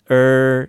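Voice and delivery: "er" held as in work; isolated vowel demo of "er"; er sound. Shown as a demonstration. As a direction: sustain a muffled "er". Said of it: "workと同じ音で".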